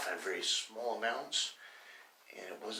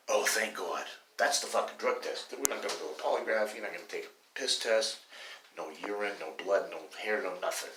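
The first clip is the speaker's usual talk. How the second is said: mock relief; 4 dB louder than usual. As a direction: play exaggerated relief, punching the opening. Mock drug tester voices exaggerated relief.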